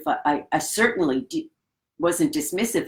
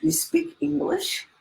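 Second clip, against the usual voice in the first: laughing surprise; 13 semitones higher than usual. Retold or imitated. Realizing he speaks English.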